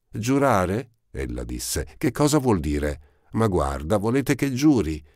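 put-on high, eager girl's voice, breathless at finding him; a ragged young girl, glad at last; Eponine's voice. A narrator's reading. Eponine finds Marius again, high and eager.

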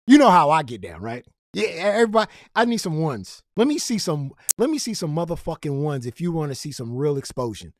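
loud hype-man call for cash; hype callout. Real, not acted. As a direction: pump the crowd, demanding.

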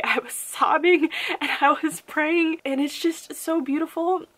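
choked up, pitch up, laughing through tears; tearful laughing. Real, not acted. Reviewer moved by the book, tearfully laughing. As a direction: overcome with emotion, half laughing half crying. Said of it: "I know this sounds so dramatic".

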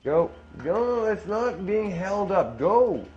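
high, drawn-out insistence; slow, exasperated parental command; exasperated order. Real, not acted. Ordering child to go.

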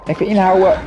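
talking while holding breath; strained, breath held. Real, not acted. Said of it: "ik ga mijn adem inhouden".

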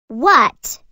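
loud startled question; surprised what. Acted. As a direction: blurt it out, caught off guard. Game character reacts loudly.

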